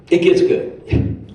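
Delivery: breathy, very high, slow tease; teasing tease. Real, not acted. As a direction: dangle it like a secret. Teasing aside to congregation.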